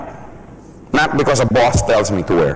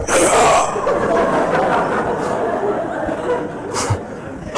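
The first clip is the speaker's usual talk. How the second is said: wheezy squealing laugh; 4 dB quieter than usual. Shown as a demonstration. Mock lost-voice laugh.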